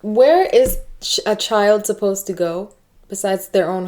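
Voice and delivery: sputtering, outraged, pitch jumping; real outrage. Real, not acted. Listener sputtering in anger at the father's rule. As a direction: voice cracking upward in indignation. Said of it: "I freaking hate this man".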